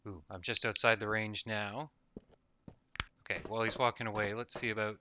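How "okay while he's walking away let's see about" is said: tense, breath held; holding breath. Real, not acted. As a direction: talk while holding your breath. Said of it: "Sorry, holding my breath there".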